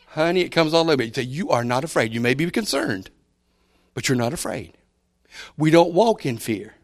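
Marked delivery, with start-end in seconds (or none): 1.2-4.7 softer, gentle correction; reassuring parent. Retold or imitated. Parent gently reassures a scared child, softly. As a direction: calmly tell the child there's no fear.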